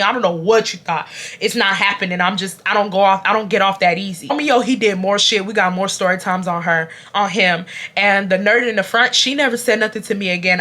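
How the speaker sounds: ordinary talk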